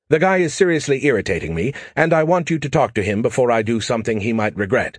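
brash AI pestering Joe for help; cocky alien AI. Acted. Skippy the alien AI talking.

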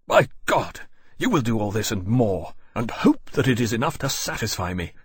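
fierce, forceful threat; savage. Acted. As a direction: bite out every word. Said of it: "he said savagely".

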